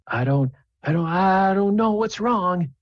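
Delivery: mock innocence. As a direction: play dumb with wide-eyed surprise. Jester feigning innocence.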